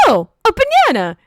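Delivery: high, loud retold mystery voice; voice from within. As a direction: imitate a surprised voice from inside her. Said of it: "you hear a voice from within her go".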